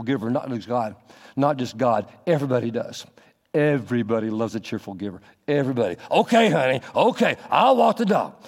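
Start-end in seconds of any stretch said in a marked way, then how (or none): 6.1-8.3 grudging agreement. Pretend. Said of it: "in such a way that I really don't want to".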